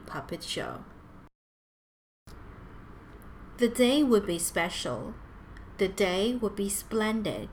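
measured picture-book reading voice; children's storyteller, lightly lilting; story narration. A narrator's reading. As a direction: read it clearly to young children.

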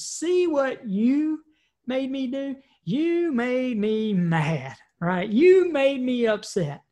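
slow, whiny mock of a blamer; whiny blame. Someone blaming others for their mood, slow whiny mock. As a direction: drag out the blame like a sulky victim.

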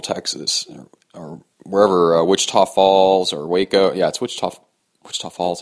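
hiccuping between words; talking through hiccups. Real, not acted. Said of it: "Sorry, I got hiccups".

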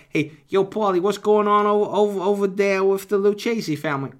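big mob boss hailing a friend; loud mafioso voice. Acted. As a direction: call out across the room like a made man. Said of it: "he makes a quack when he talks".

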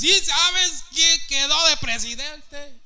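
high, slow, alarmed mock pastor; mocking worried pastor. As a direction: ape a panicking pastor. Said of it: "Y a veces los mismos pastores". (imitando a un pastor alarmado, agudo y lento)

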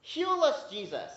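high, loud desperate plea; calling out. Acted. Lepers crying out to Jesus for healing, loud plea. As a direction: cry out to Jesus from afar. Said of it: "They're calling out".

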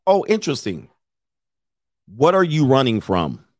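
breezy, joking question, not probing; casual joke question. Shown as a demonstration. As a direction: toss it out lightly as a joke. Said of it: "just say it as a joke".

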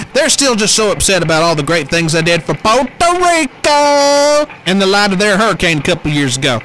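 loud blustering Trump voice; Trump impression.

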